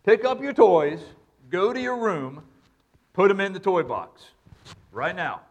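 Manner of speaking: put-on a firm father laying down the law to his child; stern dad voice. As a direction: spell out the order like a dad who means it. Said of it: "That's the tone of a dad".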